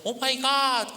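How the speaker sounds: high, loud gasp of disbelief; shocked exclamation. Retold or imitated. Australian inmate stunned by the pastor's words, shocked cry. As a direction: blurt it out wide-eyed. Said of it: "막 눈이 동그래져가지고".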